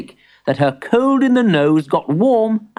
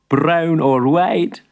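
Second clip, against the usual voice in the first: amused shopkeeper; 3 semitones higher, much slower than usual. Acted. Amused shopkeeper asks slowly.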